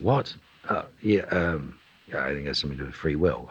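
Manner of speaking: startled "what", then low mumbled quick answer; distracted offhand. Busy actor caught by a question mid-task, distracted and offhand. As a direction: answer absently, rushing the line away. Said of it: "in the middle of doing something".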